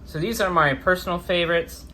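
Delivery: talking after wisdom teeth removal; swollen jaw speech. Real, not acted. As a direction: speak around a swollen jaw. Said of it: "Sorry if my voice kinda sounds weird".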